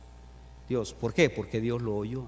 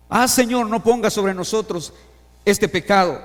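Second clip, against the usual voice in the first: pleading Aaron; 4 semitones higher, 7 dB louder than usual. Acted. Acting out Aaron's desperate plea.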